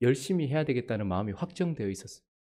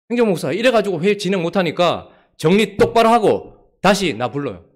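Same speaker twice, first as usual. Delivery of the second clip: loud, curt command, louder all through; stern angry order; 4 semitones higher, 9 dB louder than usual. Retold or imitated. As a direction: dismiss them with cold anger. Angry pastor gives orders.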